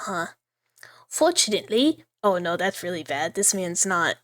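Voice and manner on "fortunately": bad British accent. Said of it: "I should be doing a bad British accent".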